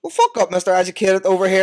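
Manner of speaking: loud, high-pitched ribbing; mock-indignant jeer. Real, not acted. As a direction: shout down the know-it-all mate. Ribbing friend for knowing languages.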